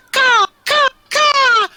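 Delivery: high shrill raven caws; shrill screeching bird woman. Acted. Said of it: "and they're like".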